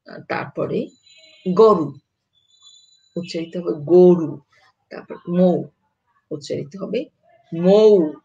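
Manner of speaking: ordinary delivery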